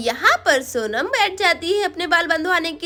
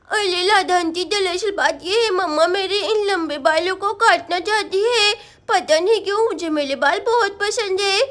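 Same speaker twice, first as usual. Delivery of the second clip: put-on lisping small-child voice, mildly plaintive; little girl Sonam, upset. Girl explaining to aunt about the haircut, plaintive. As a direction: play a little girl pouting out her complaint.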